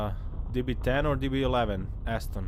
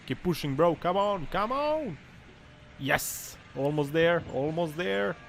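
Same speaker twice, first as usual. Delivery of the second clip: cheering on; 5 semitones higher than usual. Real, not acted. Cheering a stuck car.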